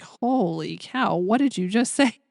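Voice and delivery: slow, amazed holy cow; stunned. Retold or imitated. Traveller stunned by clerk's message, slow amazement. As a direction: let the surprise slow you down. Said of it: "I'm looking at her like".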